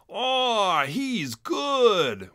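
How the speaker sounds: high, admiring gasp of praise; awestruck. A narrator's reading. Mink watches Chisel's dive, high and awestruck. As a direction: marvel at his dive. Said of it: "one of them said".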